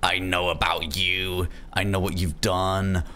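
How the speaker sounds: slow, deliberate menacing call; mock threatening. Rehearsing a threatening call to make them paranoid, slow and menacing. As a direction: draw it out like a veiled threat. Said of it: "I wanna be like".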